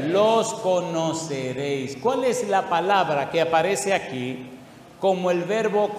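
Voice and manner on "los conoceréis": slow, weighty reading of Scripture; deliberate preacher cadence; slow emphatic reading. Acted. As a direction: lean on each word, unhurried. Preacher reads key verse slowly.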